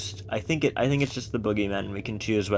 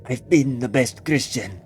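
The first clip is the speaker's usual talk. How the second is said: bitter complaint; 3 semitones higher, 6 dB louder than usual. Acted. Old man complaining at altar.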